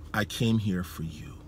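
softly retold reassurance; tender reassurance. Visiting preacher reassuring an overwhelmed man, tender and soft.

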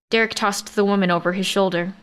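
plain reading voice

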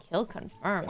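lightly voiced game announcer line; a hint of a hot-sounding hero's callout; Harbor impression. Streamer imitating a game hero she likes, lightly imitated. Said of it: "sounds hot when he's like".

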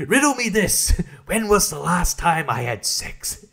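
laughing through a hammed-up Riddler riddle; mock Riddler laughing. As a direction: riddle it out like a giggling cartoon villain. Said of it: "Riddler's not like".

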